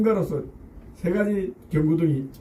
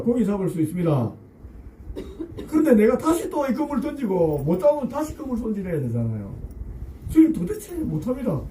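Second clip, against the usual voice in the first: tired Peter complaining; 4 semitones higher than usual. Acted. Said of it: "셋째입니다".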